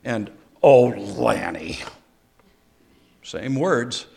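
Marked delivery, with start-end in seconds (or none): 0.6-1.8 "Oh, Lanny" said low, loud and slow, a warning; you're headed for the doghouse, "Oh, Lanny"; Ruth Ann's scolding "Oh, Lanny". Retold or imitated. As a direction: drop "Oh, Lanny" into a stern, heavy warning. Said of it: "There's a difference that when Ruth Ann says".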